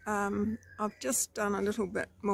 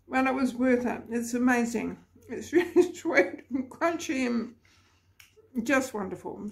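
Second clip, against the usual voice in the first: talking with a mouth full; 3 semitones higher than usual. Real, not acted. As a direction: speak through a mouthful of food. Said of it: "Sorry to eat with my, talk with my mouth full".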